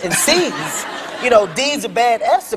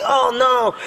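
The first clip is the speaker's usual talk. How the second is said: pretending to be caught. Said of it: "I gotta act like I'm caught".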